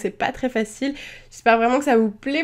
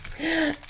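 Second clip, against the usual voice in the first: short, soft chuckle; quiet little laugh to oneself; small laugh; 4 semitones higher, 8 dB quieter than usual. Real, not acted. Rit de son ouverture ratée. (petit rire discret)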